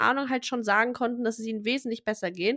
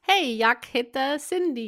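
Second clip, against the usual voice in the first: Swedish phrase. Shown as a demonstration. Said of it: "Das war Schwedisch".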